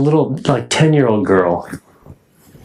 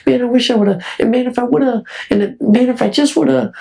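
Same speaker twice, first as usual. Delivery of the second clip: high mock regret, pitched way up; regretful old man; 12 semitones higher than usual. Imagining himself at seventy-five, mock regretful old man. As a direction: sigh out an old man's regrets. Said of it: "and go".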